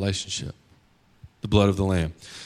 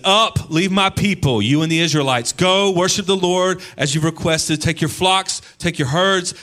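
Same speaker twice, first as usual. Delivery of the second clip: high, raised, urgent acted order; angry command; 8 semitones higher, 4 dB louder than usual. Pharaoh to Moses and Aaron, expelling the Israelites, angrily. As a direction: act out an angry ruler ordering them out. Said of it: "So he's screaming. He's so angry".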